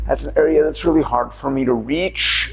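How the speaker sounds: words buzzing from a massage ball on the back; shaky vibrating voice. Real, not acted. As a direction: talk while the voice trembles. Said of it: "you hear my voice vibrating".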